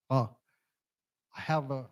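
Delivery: ordinary delivery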